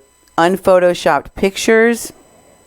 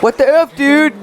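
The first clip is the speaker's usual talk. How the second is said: mock angry; 8 semitones higher than usual. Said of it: "Omar was pretty mad".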